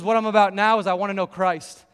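loud, driving preaching; preacher mode. Retold or imitated. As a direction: preach it with full conviction. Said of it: "in full preacher mode now".

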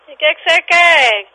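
high, insistent demand; fed up with a nuisance caller; real exasperation. Real, not acted. Demands what the caller wants.

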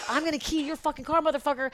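hammed-up clown menace in a high voice; mock threat. Clown with keys out threatening the driver, mock irate threat. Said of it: "Full Harlequin mode".

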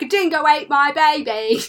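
high, loud Georgian accent impression; the speaker. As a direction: cry it out in a hammed-up Georgian accent. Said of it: "him in his, like, bloody Georgian accent".

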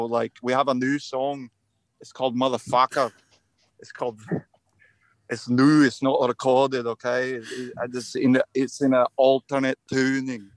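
lighter attempt at a Scottish accent; amateur Scottish accent, not too hammy. Shown as a demonstration. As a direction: try a toned-down, wavering Scottish lilt. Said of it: "let me try to do one that's more".

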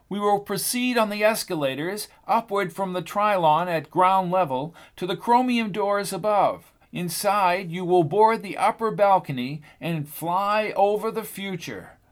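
a lightly voiced tour guide; radio announcer clarity. A narrator's reading. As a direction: present the exhibit like on the radio. Miss Haverhill guides to escalators.

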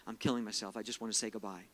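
low, subdued goodbye; retold resignation. Friend calls to say a last goodbye, understated resignation.

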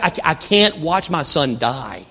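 slow, restrained distress; understated anguish, drawn out; distraught mother. Acted. Mother who can't watch her son die, quietly distraught. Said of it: "so upset and so distraught".

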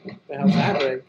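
choppy dropping audio; audio cutting out. Real, not acted. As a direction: sound breaking up. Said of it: "Your sound's cutting out".

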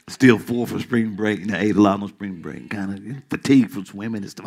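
low, subdued excuse-making; teasing imitation of sluggish listeners; mock weary congregation. Voices the quiet congregation's excuses.

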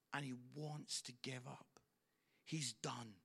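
whispered, hushed confiding. Retold or imitated. Father confiding his son is finished, whispered. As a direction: drop to a whisper for the sad part. Dad describing exhausted son.

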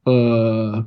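retold uneasy, drawn-out "uh, okay"; wary hesitation. Marine to man blocking the shower door, retold wary hesitation. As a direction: stall warily, imitating your own unease.

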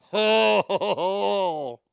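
loud, drawn-out "ho" sounds; disgusted hooting. Real, not acted. Host reacts to a gross towel story, disgusted hooting. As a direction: hoot it loud, then stretch it out.

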